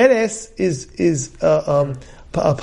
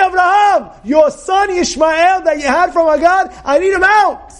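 demanding shout; 10 semitones higher than usual. Retold or imitated. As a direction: shout it out, insisting he must leave. Sarai demands Ishmael be sent away.

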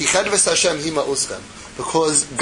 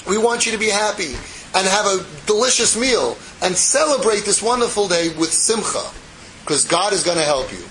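animated prophet; 3 semitones higher than usual. Retold or imitated. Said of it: "Nehemiah the prophet gets up and he says".

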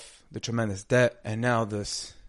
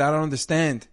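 bewildered; 4 semitones higher, 4 dB louder than usual. A narrator's reading. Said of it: "Astonished, completely bewildered".

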